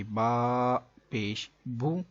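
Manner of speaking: بو said with both lips rounded into "oo"; rounded pesh sound. Shown as a demonstration. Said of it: "دونوں ہونٹ گول نہیں نہ کریں گے".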